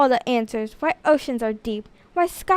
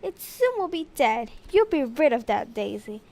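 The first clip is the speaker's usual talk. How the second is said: relieved principal; 3 semitones higher, 4 dB quieter than usual. Acted. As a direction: ease off as the problem fades. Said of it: "declared Mister Graham".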